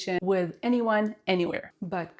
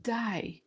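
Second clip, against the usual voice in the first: softer, higher "די" meaning "no way"; disbelieving intonation; 4 semitones higher, 6 dB quieter than usual. Shown as a demonstration. Teacher shows reaction to bad news, soft disbelieving "די". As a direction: let "די" out softly in disbelief. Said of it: "Pay attention to my intonation".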